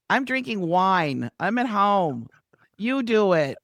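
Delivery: an easygoing celebrity shrugging it off, a touch hammed-up; Roseanne Barr impression. Star at home with wine tells producer to do the show, lightly imitated. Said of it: "excellent Roseanne Barr impression".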